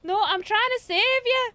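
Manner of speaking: high, loud indignant protest. Acted. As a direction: shout it out defensively. Protesting while rescuing friend.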